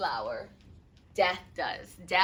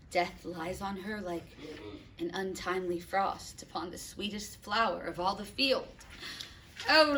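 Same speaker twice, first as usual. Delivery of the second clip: stunned grief. Acted. Father touches cold daughter.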